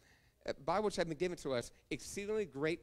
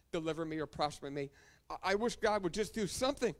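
grumbling complaint; 2 semitones higher than usual. Retold or imitated. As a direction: grumble and wish aloud, like someone feeling left with nothing. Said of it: "grumbling through life and complaining".

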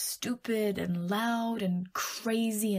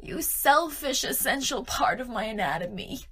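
mock scolding; 3 semitones higher than usual. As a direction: berate your own brain in mock outrage. Scolding own brain.

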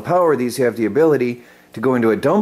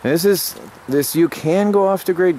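pitched up with enthusiasm; excited; 6 semitones higher than usual. Real, not acted. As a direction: sell it with real excitement. Excited about off-grid proof.

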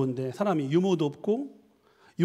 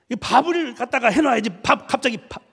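loud, raised demand over dinner; acted angry husband; 5 semitones higher, 3 dB louder than usual. Husband demanding his meal from wife, mock angry. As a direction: play a husband blowing up. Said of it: "화를 내는 거야".

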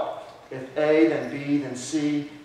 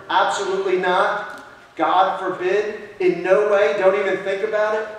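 emphatic refusal; 2 semitones higher, 4 dB louder than usual. Acted. Preacher acting emphatic refusal.

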